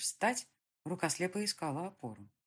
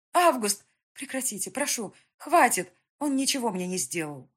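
desperate plea; 6 semitones higher, 8 dB louder than usual. A narrator's reading. Heroine begs colonel to stop.

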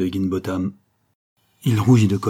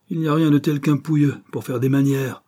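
grumbled scorn; 6 semitones higher, 4 dB louder than usual. A narrator's reading. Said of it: "grogna monsieur Higginbotham".

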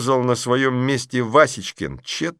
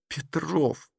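indignant hiss; 7 semitones higher, 6 dB quieter than usual. Acted. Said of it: "возмутилась Маша".

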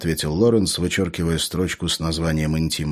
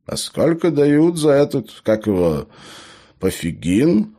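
hesitant, halting gnome's query; cautious question; 8 semitones higher, 3 dB louder than usual. A narrator's reading. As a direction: feel for the word, then ask carefully. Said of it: "осторожно спросил гном".

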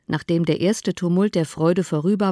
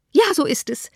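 a lightly raised, eager mother; mother answering quickly, a touch higher; mother's voice; 9 semitones higher than usual. A narrator's reading. Mother chimes in to her husband, eager. Mother speaks, narrated figure.

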